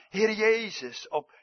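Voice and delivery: a touch slow, high and loud; fervent cry. Acted. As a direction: call the name out in earnest. Quoting Stephen's prayer again.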